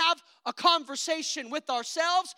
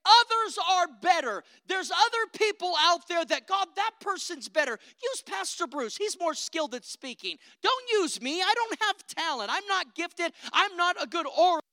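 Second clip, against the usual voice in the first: pleading inner doubt; 5 semitones higher, 4 dB louder than usual. Pretend. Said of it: "Your inner voice will say".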